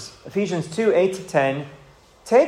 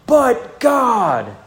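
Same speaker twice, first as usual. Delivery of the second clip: a higher, imitated Welsh preacher's "But God"; Martin Lloyd-Jones in Welsh accent; 6 semitones higher, 3 dB louder than usual. Pastor quoting a famous preacher's clip, imitated Welsh accent. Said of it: "in his Welsh accent".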